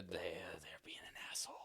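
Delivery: whispered, low grumble; suppressed frustration. Retold or imitated. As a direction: re-enact cursing a kid under your breath. Retold holding back from snapping.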